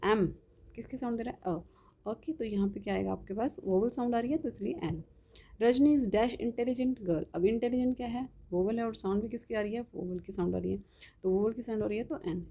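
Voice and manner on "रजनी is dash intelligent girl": very slow, word by word, as if dictating; dictation pace. Shown as a demonstration. Teacher dictating an example sentence to the class, very slow. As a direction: spell the sentence out slowly for students to copy.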